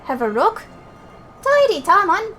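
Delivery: lilting character voice, exclamations high and loud; pleased, bouncy fairy-folk banter; delighted game character. Acted. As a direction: gush with thanks as a thrilled fairy.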